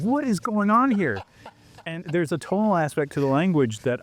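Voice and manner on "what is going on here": high, slow bewildered question; a higher, slower, puzzled take on it; mock bewildered. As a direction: play baffled at your own tongue, high and drawn out. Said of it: "I'm like".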